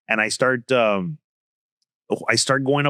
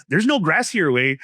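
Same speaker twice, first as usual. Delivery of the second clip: cheeky comeback; 4 semitones higher than usual. Retold or imitated. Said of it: "I go".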